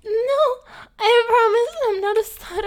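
high, breathy-sounding put-on girly voice, whimpering; fake e-girl voice. Gamer girl putting on her e-girl voice for her partner, high and whimpering. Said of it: "No more fake e-girl voice".

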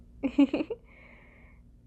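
playful breathy giggle; light teasing laugh. Acted. Laugh while teasing listener.

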